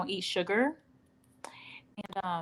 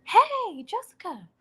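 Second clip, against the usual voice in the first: high, chirpy small-town stranger voice; imitating a local. Walmart stranger greeting Jessica, high chirpy mimic. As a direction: play the friendly stranger who knows you. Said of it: "someone's like".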